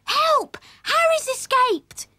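high, loud storybook cry for help; alarmed shout. A narrator's reading. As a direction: shout the alarm, pitched right up. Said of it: "when he heard Christine shout".

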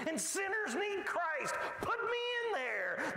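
high, full preaching shout; preacher shouting with zeal; defiant shout. Real, not acted. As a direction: throw it out to the back row.

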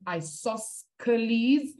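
isosceles as eye-soss-kuh-LEEZ, with a hard k; spelling pronunciation. Shown as a demonstration. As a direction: put a k sound into isosceles for the c. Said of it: "I used to pronounce it".

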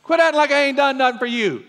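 loud, high southern-style scolding; sassy southern preacher God. Pretend. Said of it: "That's the southern version of it".

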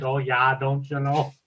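put-on a light Minnesotan accent, long o's; lightly mock the Minnesotan "oh yeah". Podcaster joking about Midwest speech, light Minnesotan accent. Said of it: "the Minnesotan accent".

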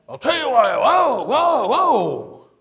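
mock the politician losing his temper; angry outburst. Politician snapping at a reporter, mock angry shout.

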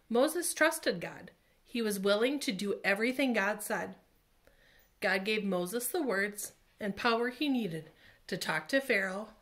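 put-on lively read-aloud for children; storytelling to kids. A narrator's reading. Teacher reading the Bible story to children, animated. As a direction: tell it like a picture book.

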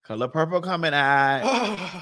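slowed, dragged out; slow drawn-out. Pretend. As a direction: stretch the words slowly. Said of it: "Why you saying like that?".

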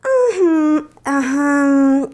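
ajá titubeante y forzado; no sabe qué decir; balbuceo. Acted. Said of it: "balbuceó Lupita". (Lupita balbucea ante los cuadros feos)

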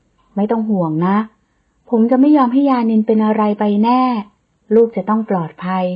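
tender reassurance. Acted. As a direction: soothe her, a touch of tenderness. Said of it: "ปลอบโยนเธอด้วยความอ่อนโยน".

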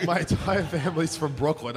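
hammed-up Staten Island accent. Guest hamming up his Staten Island accent for the host. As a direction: lean into the Staten Island vowels on "entire family". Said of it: "I heard it".

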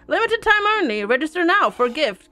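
lightly voiced crow sales pitch; crow hawker. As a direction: announce the offer like a crow.

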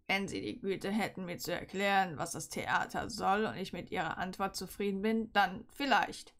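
understated growling teacher; mild growl. Acted. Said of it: "knurrte er ihr entgegen".

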